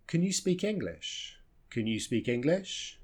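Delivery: CAN reduced to "kun", SPEAK English clearer; softly asked, CAN unstressed; weak form of can. Shown as a demonstration. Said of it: "we can just reduce it".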